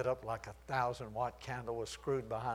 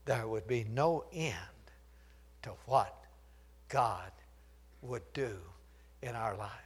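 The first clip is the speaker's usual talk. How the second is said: soft, lower near-whisper; hushed; 4 semitones lower, 4 dB quieter than usual. Acted. Preacher closing to the men, hushed near-whisper. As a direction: draw them in with a whisper.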